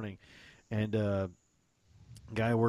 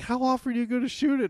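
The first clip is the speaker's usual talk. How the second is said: sceptical friend, high; 7 dB louder, faster than usual. Retold or imitated. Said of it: "He's like".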